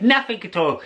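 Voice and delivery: put-on high, lilting old fella telling a tall tale; old fisherman voice. Old fisherman boasting to the narrator about mist. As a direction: spin the yarn like an old Irish fisherman. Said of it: "he said".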